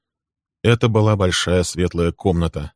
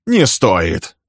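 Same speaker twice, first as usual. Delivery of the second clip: smirking; 4 dB louder than usual. A narrator's reading. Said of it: "ухмыльнулся Билл".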